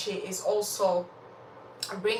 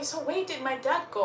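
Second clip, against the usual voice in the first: put-on questioning child; 6 semitones higher, faster than usual. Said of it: "made the child start questioning the mom".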